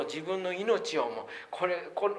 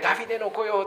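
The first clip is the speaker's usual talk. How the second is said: mild mock cry; 5 semitones higher, faster than usual. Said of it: "叫んだ人たちのように".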